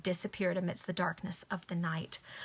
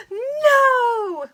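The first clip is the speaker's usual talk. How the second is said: piercing high scream of no, much louder; 13 dB louder than usual. Acted. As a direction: scream it out in terror. Cry as Walter is gagged.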